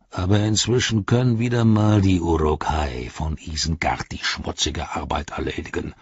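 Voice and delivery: lightly voiced orc threat; a touch of a low, scornful orc; Ugluk, menacing. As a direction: needle the rival darkly. Ugluk needles Grishnach.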